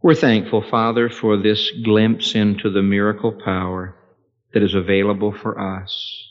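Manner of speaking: hushed pastoral prayer. Acted. Closing prayer.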